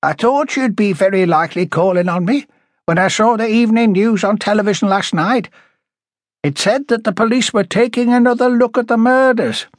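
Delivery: high-pitched, indignant character voice; a touch of anger, pitched high; angry. A narrator's reading. Woman chiding police for reopening the case late, angry. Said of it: "you sound angry".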